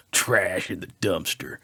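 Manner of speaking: slow, lightly voiced gruff trucker; mocking trucker voice. Trucker mimics the dreamer at the dumpster, slow mocking grumble. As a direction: mimic a trucker grumbling the words back slowly. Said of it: "this really deep, like, trucker voice".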